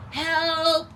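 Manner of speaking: loud, high call for help; cry for help. Acted. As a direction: shout "Help!" as she flees. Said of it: "cried the witch".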